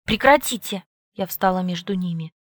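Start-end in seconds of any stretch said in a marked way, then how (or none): 0.1-0.8 loud. A narrator's reading. Stepping between fighters.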